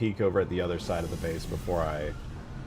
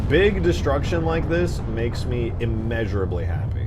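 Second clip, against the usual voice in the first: louder eager gushing; excited; 6 dB louder than usual. Real, not acted. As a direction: bubble over with glee. Wired, gushing about destruction.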